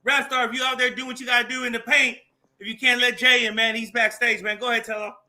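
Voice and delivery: loud call to someone backstage. Real, not acted. Calling to the producer offstage to let Jay in, loud. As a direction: raise the voice to reach the back.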